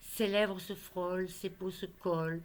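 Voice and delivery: measured poetry reading with pauses between phrases; poem recitation. Acted. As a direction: recite a love poem line by line. Recites her poem on love.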